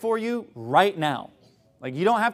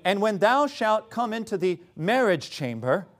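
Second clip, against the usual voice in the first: pseudo-intellectual British scripture reading; sarcastically grand British-accented reading; mock British accent. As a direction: read it pompously in a put-on British accent. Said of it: "speaking in kind of a British accent".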